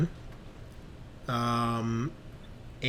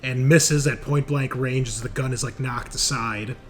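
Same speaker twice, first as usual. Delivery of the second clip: slow, dramatic game master narration; scene narration; 4 dB louder, slower than usual. Acted. Game master describes Sajad's panicked retreat, slowly and dramatically. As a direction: paint the action beat by beat, unhurried.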